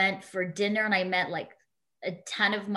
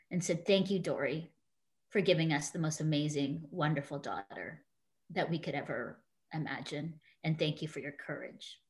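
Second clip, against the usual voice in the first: emotional. Real, not acted. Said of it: "it still gets me emotional".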